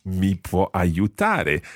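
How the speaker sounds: slow, clear teacher repetition; slow model phrase. Shown as a demonstration. Teacher repeats the phrase slowly for learners. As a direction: say it slowly for the class.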